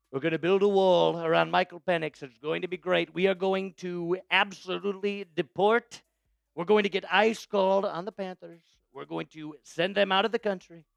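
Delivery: light Trump voice, boastful promises; a hint of Trump rallying fans; Trump impression. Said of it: "I absolutely will do the Trump impression".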